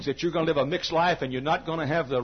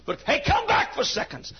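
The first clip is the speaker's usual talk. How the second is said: higher, urging call; pleading call; 14 semitones higher than usual. Acted. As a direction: lift the invitation up. Voicing God's call.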